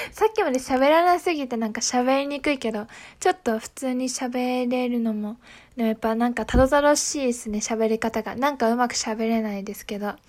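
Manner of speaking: halting speech from a numb mouth. Real, not acted. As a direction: talk clumsily, mouth still numb.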